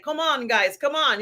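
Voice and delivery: rally the guys with a try at his charm; attempted sexy accent. Podcast host imitating Andor rallying fellow prisoners, mock sexy call. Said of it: "I can't do his sexy accent".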